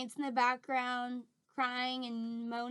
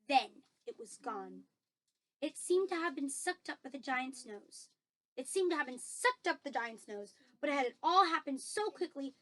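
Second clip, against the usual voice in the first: lively storybook reading with stressed action words; story narration; 3 semitones higher, 5 dB louder than usual. A narrator's reading. Reader tells of the dream being blown in, lively story narration. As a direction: read it out with light suspense.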